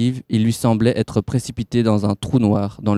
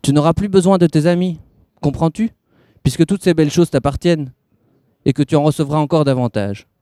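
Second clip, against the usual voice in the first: higher, pushy tempter's voice; man in grey pressing; 5 semitones higher than usual. Acted. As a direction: press the child to want the doll. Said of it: "celui-ci ajouta rapidement".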